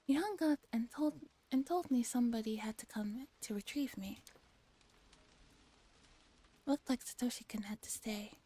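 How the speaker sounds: measured first-person narration; story narration. Acted. Reading a police questioning scene from a game, measured story narration. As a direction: read it as an inner monologue, each sentence settling down.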